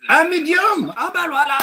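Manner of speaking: high, loud incredulous question; hammed-up astonishment; mock surprise. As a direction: feign disbelief.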